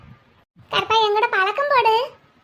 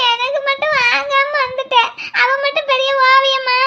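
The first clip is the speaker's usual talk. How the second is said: tearful complaint. Acted. Girl left without a gift protests to her cousin, tearful complaint. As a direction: cry it out as an accusation. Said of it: "நீலா, அழுகாத".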